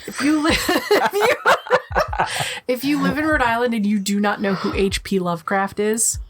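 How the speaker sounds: lightly put-on Rhode Island accent, ranting; hint of a Rhode Island accent. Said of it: "That was the best Rhode Island accent I can do".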